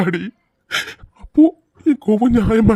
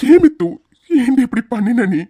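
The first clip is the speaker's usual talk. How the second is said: anguished plea; 3 semitones higher than usual. Acted. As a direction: demand why in anguish. Husband pleading again.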